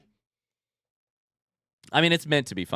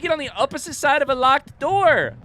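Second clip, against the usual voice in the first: high, raised-voice incredulous question; exasperated disbelief; 11 semitones higher, 4 dB louder than usual. Real, not acted. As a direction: demand an explanation from your sidekick. Exasperated question to game character.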